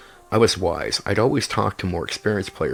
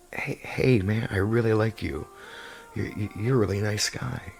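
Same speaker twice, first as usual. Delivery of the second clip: lightly voiced soft halfling; 2 semitones higher, 3 dB quieter than usual. Shown as a demonstration. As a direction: ease into a gentle, flattering small voice. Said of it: "I soften tone. I speak in a nicer way".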